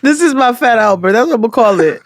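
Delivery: talking around a swollen lip. Real, not acted. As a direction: lips puffy, words a bit thick. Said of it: "My lip is swollen".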